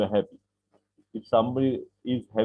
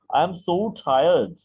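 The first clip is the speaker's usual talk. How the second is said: "so" drawn out long and slow in "I'm so tired"; stretched so tired; 4 semitones higher, 3 dB louder, much slower than usual. Acted. Teacher acting a weary student for the class, slow and stretched.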